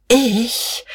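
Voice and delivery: high, stretched questioning word; lingering, incredulous query; drawn-out question. A narrator's reading. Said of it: "fragte sie gedehnt".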